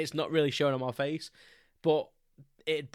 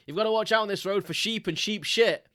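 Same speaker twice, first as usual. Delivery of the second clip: joking warning; 7 semitones higher, 5 dB louder than usual. Retold or imitated. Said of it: "I say something like".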